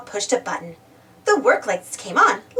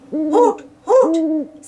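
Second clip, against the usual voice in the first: higher, louder hollow hoots; owl hoot; 5 semitones higher, 5 dB louder than usual. A narrator's reading. Owl on a fence post, hooting. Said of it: "said the owl".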